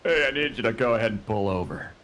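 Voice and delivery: stern traffic-stop cop; lightly voiced police officer. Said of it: "I've been working on my cop voice".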